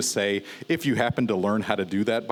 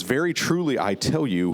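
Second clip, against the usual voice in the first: solemn scripture reading; 5 semitones higher than usual. Acted. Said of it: "Jesus says".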